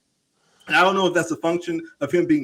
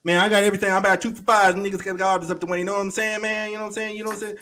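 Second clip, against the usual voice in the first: put-on street voice; 5 semitones higher, faster than usual. Continuing the put-on phone voice.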